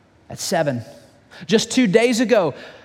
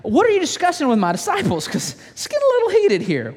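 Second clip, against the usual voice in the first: Jesus asking; 7 semitones higher than usual. Acted. Jesus voiced asking the crowd.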